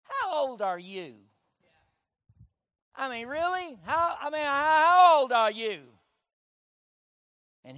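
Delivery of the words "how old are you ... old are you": amazed elder. Retold or imitated. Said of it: "one of them saying".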